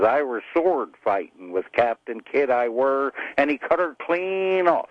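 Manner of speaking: put-on storytelling in a joke pirate accent. Pirate explaining his hook to a stranger, pirate accent. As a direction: boast of old battles in pirate accent. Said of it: "slid back and forth into that pirate accent".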